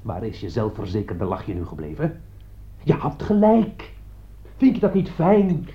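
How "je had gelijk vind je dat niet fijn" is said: bitter taunt. Acted.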